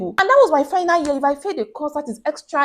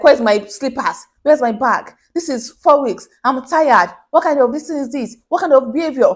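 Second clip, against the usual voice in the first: annoyed customers complaining; 4 semitones higher, 5 dB louder than usual. Retold or imitated. Customers complaining about late goods.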